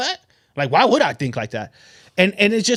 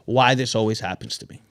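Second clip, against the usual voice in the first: lower, sulky self-pitying complaint; mock self-pity; 6 semitones lower than usual. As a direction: say it like a defeated victim. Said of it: "is going to say".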